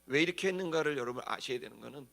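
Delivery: normal talking voice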